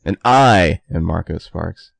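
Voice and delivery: hammed-up slow parody; mock imitation. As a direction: mimic his stilted intro, slowly. Mocking partner's flat intro.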